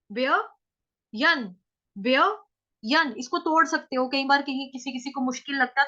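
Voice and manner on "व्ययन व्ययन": व्ययन stretched very slowly, syllable by syllable; drawn-out syllables. Shown as a demonstration. Teacher stretches the word व्ययन for learners. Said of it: "उसके बाद आएगा व्ययन".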